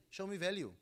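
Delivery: high, incredulous repeat of show me value; disbelieving echo. Retold or imitated. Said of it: "And I was like".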